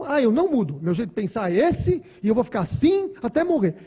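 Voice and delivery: mock the stubborn with a laugh; stubborn person. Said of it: "Tem gente que fala assim".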